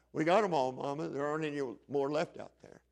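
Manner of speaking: lightly acted low, quiet reply; subdued boy. Boy tells mama no vessels are left, subdued. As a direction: drop soft and low, a touch deflated.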